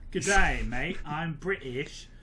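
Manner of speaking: put-on British accent. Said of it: "as the British say".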